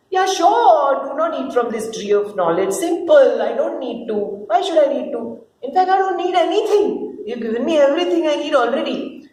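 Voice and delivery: a keen student answering the teacher; eager young man voice. Acted. Man promising God, eagerly.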